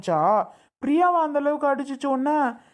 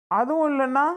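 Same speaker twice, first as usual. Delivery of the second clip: exasperated; 4 semitones higher than usual. Acted. Brother losing patience with silent sister.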